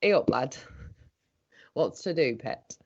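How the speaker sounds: broad Northern English accent, friendly; a Yorkshire greeting in Northern English; Northern England accent. Shown as a demonstration. The speaker shows off her Northern English accent on request. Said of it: "I can talk like that".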